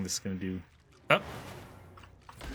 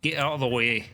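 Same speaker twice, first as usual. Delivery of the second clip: gruff Scottish dwarf, a bit louder; Scottish accent; 5 semitones higher, 3 dB louder than usual. Acted. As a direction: bark it in a rough Scottish accent. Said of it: "excuse my terrible Scottish accent".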